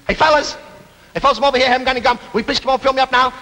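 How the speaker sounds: high, urgent call for help. Acted. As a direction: call across to workmen who haven't noticed you. Calls out to refill men.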